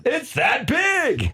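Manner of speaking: slow, booming, high announcer call; radio voice. Shown as a demonstration. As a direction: stretch it out like a big radio call. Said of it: "I'm gonna do the radio voice for this one".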